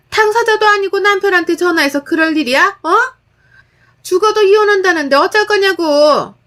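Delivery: high, loud scolding rant; scolding mother-in-law. Acted. Mother-in-law berating her daughter-in-law on the phone, loud angry scolding. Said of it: "시모에게 전화가 왔고 욕 한 바가지를".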